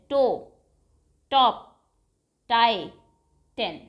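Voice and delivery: each word spoken on its own with a crisp t; a teacher modelling t words one at a time; word list demo. Shown as a demonstration. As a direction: say each word separately and clearly. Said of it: "Say these words".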